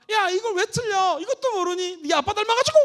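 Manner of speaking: put-on mother yelling at her child over an easy test question; scolding mother. Shown as a demonstration. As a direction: berate the child over a mistake. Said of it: "폐쇄형 질문하는 엄마".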